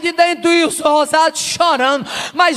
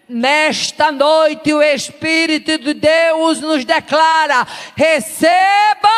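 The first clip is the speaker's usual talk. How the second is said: building prophetic shout; 2 semitones higher, slower than usual. Real, not acted. (declaração profética em grito)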